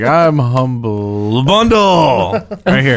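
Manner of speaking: bad impression. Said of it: "That was terrible".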